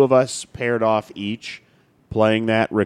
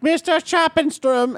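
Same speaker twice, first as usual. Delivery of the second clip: German name mispronounced; slower than usual. Pretend. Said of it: "and it was like".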